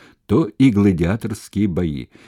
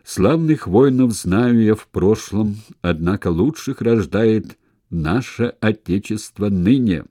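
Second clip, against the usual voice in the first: poem recital; 3 semitones higher, 3 dB louder than usual. A narrator's reading. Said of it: "Он привёл двустишие какого-то греческого поэта".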